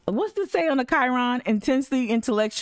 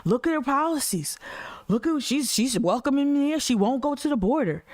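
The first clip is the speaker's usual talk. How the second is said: higher, mocking voice of critics; 5 semitones higher than usual. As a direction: parody the critics in a high, sneering voice. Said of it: "y'all turned it into".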